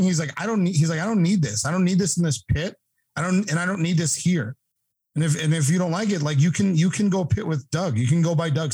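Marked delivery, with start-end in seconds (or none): 0.4-0.8 raised-pitch retold protest; upset. Driver objects to shirts in his pit, upset. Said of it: "he's still, like, upset". 1.0-8.7 raised-pitch retold protest; upset. Driver objects to shirts in his pit, upset. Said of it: "he's still, like, upset".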